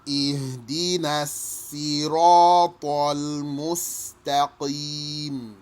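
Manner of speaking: slow, drawn-out chanted recitation; Quran recitation. Shown as a demonstration. Teacher recites the verse for students, slow chanted recitation. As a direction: recite it slowly, stretching each sound. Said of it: "and you can say".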